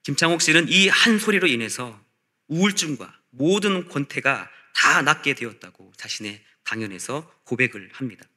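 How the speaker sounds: ordinary talk, nothing marked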